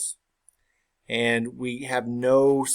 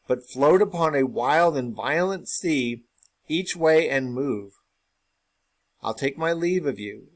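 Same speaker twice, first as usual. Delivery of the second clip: measured, slightly raised recital voice; dramatic Shakespeare reading; 2 semitones higher than usual. Acted. Teacher reading Ross's farewell to the class, measured recital. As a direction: read the verse out with gravity. Reads Ross's speech aloud.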